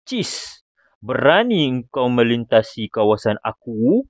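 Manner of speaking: slow, scornful challenge; demonstrated exasperated anger; angry, indignant. Shown as a demonstration. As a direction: spit out the exclamation, then challenge the intruder. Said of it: "kena baca dengan intonasi yang geram".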